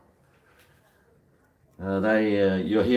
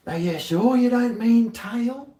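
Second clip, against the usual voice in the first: high, slow, prissy computer voice; Google voice; 13 semitones higher, 4 dB louder, slower than usual. Retold or imitated. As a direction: play a smug search engine. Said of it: "and it".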